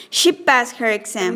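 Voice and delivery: "She passed her exam" as a rising check; high rise. Shown as a demonstration. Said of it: "High rise".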